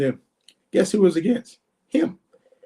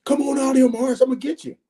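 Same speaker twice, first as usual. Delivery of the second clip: higher-pitched, hammed-up challenge; mock threat; 5 semitones higher than usual. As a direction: imitate a trash-talker calling someone out. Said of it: "you gotta get up there and say".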